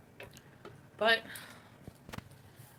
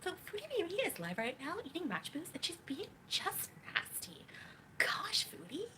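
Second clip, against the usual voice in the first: very high, swooping put-on voice; exaggerated high-pitched impersonation; mock reaction video; 10 semitones higher than usual. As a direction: parody an indignant streamer, stretching out the words. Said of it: "She's gonna make a reaction to this".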